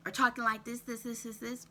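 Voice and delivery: "this, this, this" chopped short, stumbling and breathless; choppy breathing speech. Shown as a demonstration. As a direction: clip out "this, this, this" like you're short of air.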